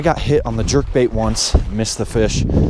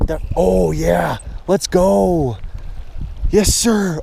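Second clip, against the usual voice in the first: higher, drawn-out whoop of triumph; excited celebration; 7 semitones higher, much slower than usual. Real, not acted. Angler hooking a better fish, excited. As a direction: cheer as the fish takes the line. Hooks a fish while fishing.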